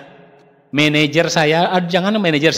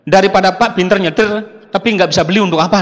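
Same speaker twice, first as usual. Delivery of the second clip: angry retort; 4 semitones higher, 4 dB louder than usual. Retold or imitated. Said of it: "Marah sekali pada saat itu".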